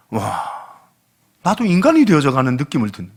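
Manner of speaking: ordinary talk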